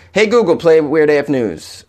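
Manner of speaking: slow, deliberately spaced words to a smart speaker; slow device command. Shown as a demonstration. Host showing listeners how to command a smart speaker, slow and deliberate. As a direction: spell it out clearly for the machine. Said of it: "tell these devices to".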